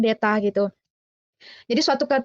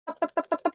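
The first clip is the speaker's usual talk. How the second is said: imitated rattling prayer; 3 semitones higher, 7 dB quieter than usual. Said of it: "orang Kristen itu kan doanya mantep".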